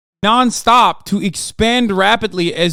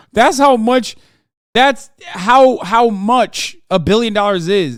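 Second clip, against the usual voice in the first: laughing; 5 semitones higher, 4 dB louder, slower than usual. Real, not acted. Laughing hard at billion-dollar math.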